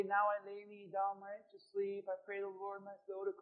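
soft, rote bedtime-prayer recital; mock little prayer. Preacher mimicking a bedtime prayer for contrast, soft and rote. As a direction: murmur it softly like a routine little prayer. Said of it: "this isn't that type of little prayer".

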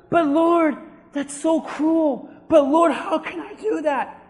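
pleading protest. Acted. Preacher acting a believer objecting to cruelty, pleading. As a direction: plead upward, stretching the words.

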